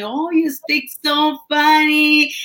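lightly mimicked remark, drawn out slowly; people remarking on accent. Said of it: "people will tell me".

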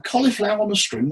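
"Cauliflower on a string" jumps high in disbelief; incredulous. Retold or imitated. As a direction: scoff at the idea in disbelief. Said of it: "the blokes that go".

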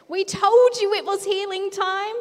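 high, loud gleeful told-you-so; triumphant cheer. Acted. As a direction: crow it out to the crowd.

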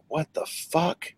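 soft, slow, drawn-out disbelief; mock bewilderment. Viewer reacting to the absurd rescue, hushed mock disbelief.

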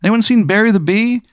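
very high, squeaky little bee; chirpy high insect voice; tiny bee voice. Acted. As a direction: pitch way up like a tiny bee talking. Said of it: "you hear from outside".

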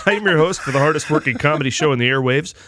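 lively, lifted host introduction; show host announcer. Acted. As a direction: present yourself like a radio showman.

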